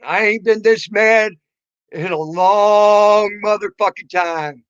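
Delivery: angry shouting, slowing at the end; furious shout. Real, not acted. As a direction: yell it out in real anger. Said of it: "I'm so mad".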